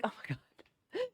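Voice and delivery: slow, breathy laughing exclaim. Real, not acted. Realizing the joke is true, laughing. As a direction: gasp it out while laughing.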